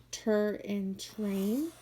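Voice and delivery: tur stretched slowly then train; sounding out. Shown as a demonstration.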